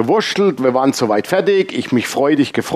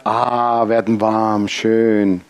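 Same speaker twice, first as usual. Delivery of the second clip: gespieltes Wohlbehagen; 4 semitones lower, much slower than usual. Retold or imitated. Spielt Genuss der warmen Griffe.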